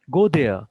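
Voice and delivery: "Go" rising and loud, "there" falling; loud command, up on "Go" and down on "there"; rise-fall intonation. Shown as a demonstration. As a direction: lift the voice on "Go", drop it on "there". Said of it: "on "go," there is a rise".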